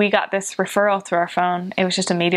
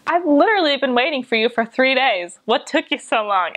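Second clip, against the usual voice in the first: big jolly man; 6 semitones higher than usual. Retold or imitated. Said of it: "big jolly man".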